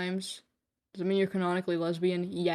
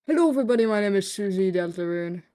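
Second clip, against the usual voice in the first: Susie Deltarune; 5 dB louder, faster than usual. Pretend. Streamer greeting everybody as a game character, hammed-up introduction.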